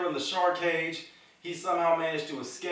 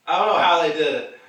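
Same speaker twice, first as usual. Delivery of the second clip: excited; 9 dB louder than usual. Real, not acted. Excited about Gunther teasing Goldberg.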